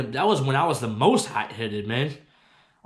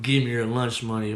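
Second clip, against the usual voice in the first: low, dismissive mock of the bully; 4 semitones lower than usual. Mocking the bully's demand in a low, scornful voice. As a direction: parrot it back with scorn. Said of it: "Talking about".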